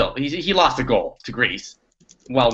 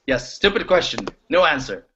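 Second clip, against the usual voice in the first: put-on Russian mobster accent. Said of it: "he sounds like a Russian mobster".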